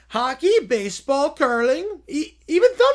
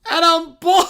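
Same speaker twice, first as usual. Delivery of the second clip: Caillou wail; 4 semitones higher, 7 dB louder than usual. Acted. Caillou wails.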